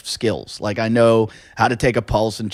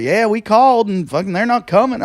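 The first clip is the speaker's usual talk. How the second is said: alarmed hick; 9 semitones higher, 3 dB louder than usual. Retold or imitated. Hicks answer about 911.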